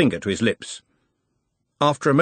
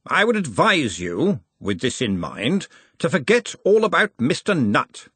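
higher, booming Arch-Chancellor; a hearty old wizard in charge; lightly raised blustering master; Ridcully's voice; 4 semitones higher than usual. Acted.

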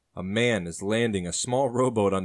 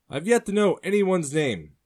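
higher, louder blunt sailor; direct; 10 semitones higher, 6 dB louder than usual. Acted. Sailor demands names from the strangers, direct. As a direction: state it flatly and firmly. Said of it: "the wet man says directly".

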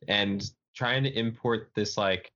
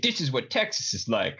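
lightly put-on Texan accent, a bit higher; terrible Texan accent; 3 semitones higher than usual. Mocking Texan-style candidates in a weak Texan accent. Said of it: "that's my terrible ter- Texan accent".

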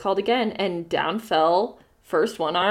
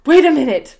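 louder, higher pleading call; pleading ghost; 6 semitones higher, 10 dB louder than usual. Acted. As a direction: beg him to wait. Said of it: "pleaded the ghost".

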